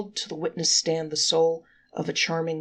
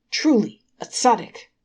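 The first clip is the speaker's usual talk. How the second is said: high, much louder rapturous cry; 8 semitones higher, 10 dB louder than usual. Acted. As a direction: exclaim in delight, much higher and louder. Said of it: "cried the angels rapturously".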